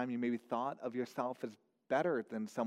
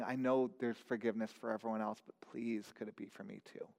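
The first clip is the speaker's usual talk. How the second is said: much softer, fading to almost nothing; a desperate plea that dies away; hushed plea; 5 semitones lower, 5 dB quieter, faster than usual. Acted. Tax collector's whispered prayer.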